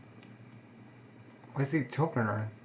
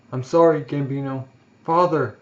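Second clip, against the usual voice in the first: crying apology; 4 dB louder than usual. Acted. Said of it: "He's, like, crying".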